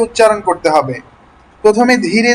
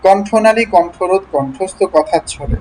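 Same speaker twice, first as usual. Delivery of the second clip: word-list drill, one word at a time; deliberate, spaced-out articulation; slow reading. Shown as a demonstration. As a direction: read each word slowly and separately, fully articulated. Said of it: "আমি ধীরে ধীরে পড়লাম".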